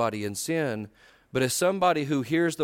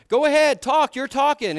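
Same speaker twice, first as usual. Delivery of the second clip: loud, high mock exasperation; upset impatience; 9 semitones higher, 6 dB louder than usual. Husband telling elder he is listening, exasperated re-enactment. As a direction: push her to talk while plainly not listening. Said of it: "it's all over my voice".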